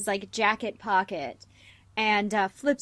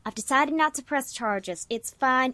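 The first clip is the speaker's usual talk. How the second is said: gracious Honey. Acted. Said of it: "and she goes".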